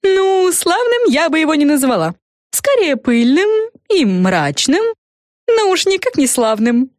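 lightly voiced fairy, high; a hint of a chirpy fairy. A narrator's reading. Fluffanora to the girls, lightly voiced fairy. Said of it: "заметила Френ".

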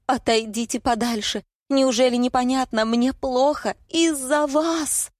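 high-pitched, strained outburst, dragging out the end; distressed cry. A narrator's reading. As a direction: cry out as if it's unbearable. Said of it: "не удержалась от крика".

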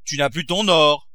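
startled exclamation; shocked cry. A narrator's reading. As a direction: exclaim it in alarm. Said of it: "s'écria Grandet".

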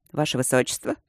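emotionless deadpan. Acted. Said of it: "В голосе ни капли удивления".

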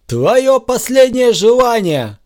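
loud, slow, high offer; lightly hammed grand villain; a hint of a mocking host; mock generous offer. A narrator's reading. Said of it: "предложил Супермен".

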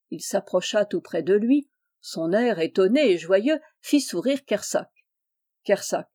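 usual speaking voice

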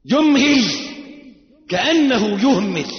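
high, forceful preaching cry; rousing loud repeat. Real, not acted. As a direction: wake a sleepy audience with it. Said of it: "طب اصحى الله يخليك".

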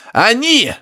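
high grunting exclaim through static; grunting professor. Acted. Professor protesting to Harry over radio, high grunting. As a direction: squeal it out like a grunting old man.

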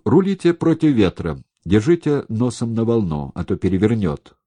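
high, loud urgent orders; shouted instructions. A narrator's reading. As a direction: shout steering orders over the wind. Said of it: "крикнул он Громову".

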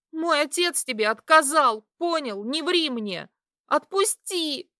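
high loud scream; screaming to be let go. A narrator's reading. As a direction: scream at him with all her strength. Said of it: "Я вопила, что есть сил".

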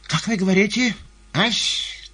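high-pitched loud questioning; eager query. A narrator's reading. Fagot answering the gallery, high eager query. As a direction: call back in a high, loud voice.

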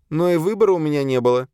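high-pitched female servant voice; servant demoness confessing. A narrator's reading. Tense servant admits her killings to exorcist, high voice. Azalia's voice in story.

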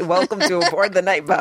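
careful American accent demo. Shown as a demonstration. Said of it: "teaching Paul how to say".

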